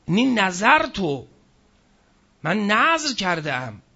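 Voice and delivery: «نذر» stressed and slowed; emphatic slow quote. Shown as a demonstration. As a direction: lean on «نذر» in «من نذر کردم». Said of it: "اما گفت چی؟". (تأکید روی «نذر»)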